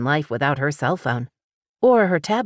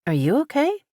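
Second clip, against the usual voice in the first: kind; 11 semitones higher, faster than usual. A narrator's reading. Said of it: "Paris asked kindly".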